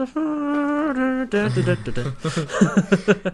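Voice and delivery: high held note, then da-da tune; wordless singing. Retold or imitated. Carrying on John's song, wordless singing. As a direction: trail the song into la-las and laughter. Carries the tune on without words.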